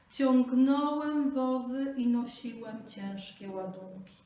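lightly voiced tired old buffalo; a hint of worn-out bitterness; weary old buffalo. Old buffalo complains to the Brahmin, mildly weary. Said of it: "ze znużoną miną".

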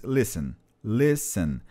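"Listen" said with the T left silent. Shown as a demonstration. Teacher modelling the word for learners, silent T in "Listen". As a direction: say "Listen" as lis-en, no T sound. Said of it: "esse T não é pronunciado".

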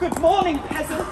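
lofty high greeting; haughty queen. Pretend. Towering in heels, greeting the friend like a haughty queen. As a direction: look down your nose at them.

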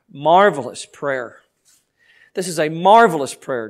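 hushed closing prayer. Real, not acted. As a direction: address God reverently, pausing between phrases. Leads a prayer.

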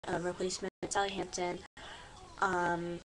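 talking around a retainer; slightly lisping with a retainer in; wearing a retainer. Real, not acted. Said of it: "I talk so funny. Um, I have a retainer".

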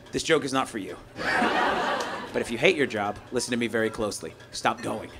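comic confiding to the audience; confiding hush. Real, not acted. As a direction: lean in and say it softly. Mock-sincere advice to hate-job crowd.

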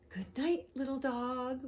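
a gentle, fading goodnight whisper; soft goodnight. A narrator's reading. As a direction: say goodnight so the sleeping dog stays asleep. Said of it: "whispered little robot".

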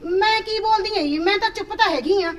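put-on hurt, half-crying protest; whiny crying. Wife protests to husband's friend with tearful whining. Wife whines after being called barking.

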